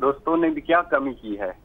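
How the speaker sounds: measured poetic delivery; couplet recitation. Acted. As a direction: recite it as verse, pausing after the line.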